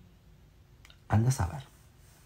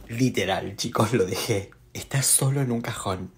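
nervous; 3 semitones higher, 5 dB louder, slower than usual. Real, not acted. Nervous about creepy toy.

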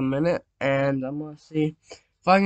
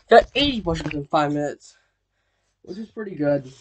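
tiring out; faster than usual. Real, not acted. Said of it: "starting to tire out some".

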